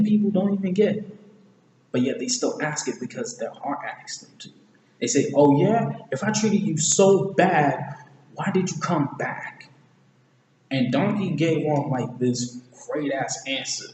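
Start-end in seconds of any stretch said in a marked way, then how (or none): 5.3-9.7 higher, challenging mock retort; acted retort. Retelling Shrek's challenge to Donkey, acted retort. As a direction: throw it back in a raised, drawn-out voice.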